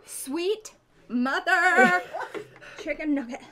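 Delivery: slow, laughing cry; laughing exclamation. Real, not acted. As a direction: laugh through the burn. Burning mouth, exclaiming.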